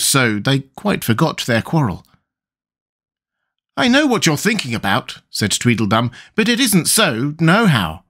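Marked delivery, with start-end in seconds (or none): 3.8-5.2 put-on high, childish fat boy voice; a boyish Tweedledum, piping and smug; Tweedledum's voice. Tweedledum speaks. 6.3-8.0 put-on high, childish fat boy voice; a boyish Tweedledum, piping and smug; Tweedledum's voice. Tweedledum continues.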